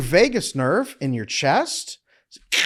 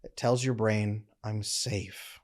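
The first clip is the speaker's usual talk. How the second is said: dropping much softer to a calm low murmur; voice going down; 3 semitones lower, 7 dB quieter, slower than usual. Shown as a demonstration. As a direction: let the voice sink softly, settled and safe. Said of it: "Hear how my voice is going down?".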